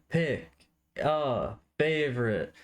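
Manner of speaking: high, slow announcer call; game show host. Pretend. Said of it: "as, like, a game show style".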